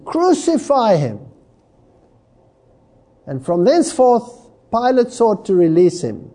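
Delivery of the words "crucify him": higher-pitched, mildly raised cry; a touch of a mob's insistent demand; restrained outcry, falling at the end; crying out exceedingly. Acted. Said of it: "cried out even the more exceedingly".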